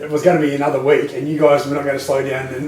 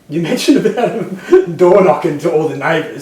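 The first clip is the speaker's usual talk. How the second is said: laughing; 4 semitones higher, 5 dB louder, slower than usual. Real, not acted. Teasing co-host, laughing.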